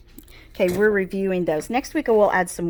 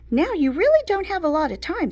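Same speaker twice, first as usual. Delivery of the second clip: urgent mom, higher and louder; 10 semitones higher, 4 dB louder, faster than usual. A narrator's reading. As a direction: hurry the kid along. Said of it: "said my mom".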